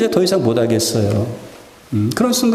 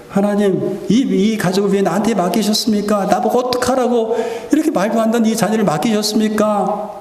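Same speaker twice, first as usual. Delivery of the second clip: raised, pleading complaint to God; pouring out to God; 5 semitones higher than usual. Shown as a demonstration. A believer pours out complaints to God, pleading and rising. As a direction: vent it all out to God, rising as you go. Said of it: "하나님 앞에 퍼붓는 거죠".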